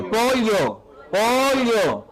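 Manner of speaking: "Pollo" repeated as "po-lyo"; pollo with elle. Shown as a demonstration. Teacher comparing sounds, "Pollo" as "po-lyo". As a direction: keep the palatal l in each "Pollo". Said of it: "Es diferente".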